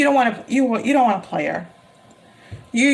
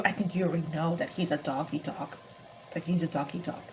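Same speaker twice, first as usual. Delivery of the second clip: said nicely; 5 semitones lower, 11 dB quieter than usual. Real, not acted. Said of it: "Let me just say that nicely".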